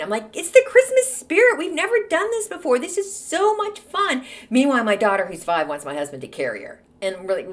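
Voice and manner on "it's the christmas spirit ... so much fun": high, bubbly hype-queen cheer; sing-song forced cheerfulness; hype mom. Retold or imitated. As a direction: sell the fun like a hype queen. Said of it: "as a mom, you are the hype queen".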